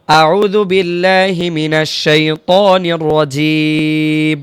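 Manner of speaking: slow, drawn-out Quranic recitation. Shown as a demonstration. Teacher reciting slowly before the lesson, drawn out. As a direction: chant it slowly and reverently.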